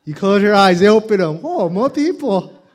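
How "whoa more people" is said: high, loud amazed whoa; whoa surprise. Acted. Comic amazed at crowd, high whoa. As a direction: gasp at the crowd.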